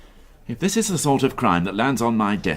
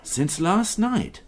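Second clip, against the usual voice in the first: higher, slow, dawning dread; alarmed realisation; 8 semitones higher, 3 dB quieter, much slower than usual. Acted. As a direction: it sinks in slowly. Alarmed at body news.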